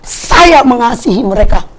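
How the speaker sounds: voice of God. Retold or imitated. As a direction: speak as the Lord grieving over them. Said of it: "kata Tuhan".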